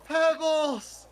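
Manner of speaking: put-on high-pitched child, gushing with relief; relieved kid. Kid hugging the rescued cat, high relieved cry. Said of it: "Just says".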